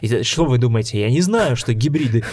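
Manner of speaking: hammy pompous villain monologue; lightly mock grand-villain speech; villain boss. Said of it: "классический пафосный монолог злодея".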